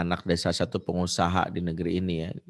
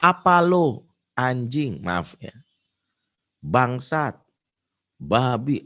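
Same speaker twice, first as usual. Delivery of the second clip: louder, higher mock cursing; teen swearing at his mother, mildly acted; rude outburst; 4 semitones higher, 3 dB louder, much slower than usual. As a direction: snap insults at mom. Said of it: "dengan spontan dia bilang".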